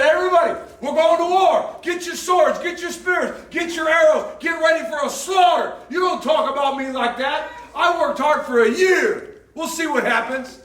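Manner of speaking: loud, high rallying shout to the troops; war cry. Acted. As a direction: bellow the call to arms at full force. David rallies his soldiers for war.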